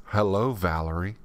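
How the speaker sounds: lightly voiced talking panel, low with a rising end; a hint of an automated voice; imitated panel voice. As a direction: repeat it like a recorded announcement, dropping low on the name. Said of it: "It says".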